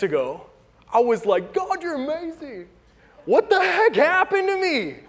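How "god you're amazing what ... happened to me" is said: mock self-quote. Preacher mocking his morning self, in a mock high voice. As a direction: send up his own earlier gushing praise.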